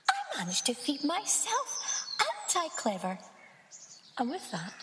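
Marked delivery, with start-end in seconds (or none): 0.1-3.2 high, chirpy little bird voice; proud baby bird. Acted. Baby bird to herself, high proud chirp. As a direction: boast like a tiny proud chick.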